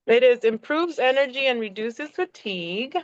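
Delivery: lightly put-on reading with a swooping tune; playful, mildly odd read-aloud voice; weird reading voice. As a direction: read the facts lightly in somebody else's voice. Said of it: "read in weird, different people's".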